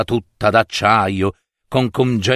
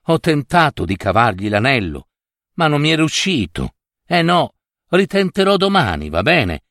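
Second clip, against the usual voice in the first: lightly voiced, quick-talking little king; fast, slightly acted storybook prince; young king explaining; faster than usual. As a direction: rattle off a hurried excuse. Reuccio excuses his failed attempt.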